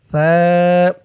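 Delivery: "সা" as a soft, held th sound; tongue tip on upper teeth for a long "সা"; very soft tha. Shown as a demonstration. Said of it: "সার উচ্চারণটা একদম নরম হবে". ("সা" একদম নরম, দাঁতে জিভ লাগিয়ে)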